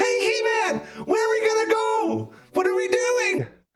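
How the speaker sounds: very high, slow, swooping cartoon sidekick voice. Acting out a requested cartoon conversation: Orko voice. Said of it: "it would go a little something like this".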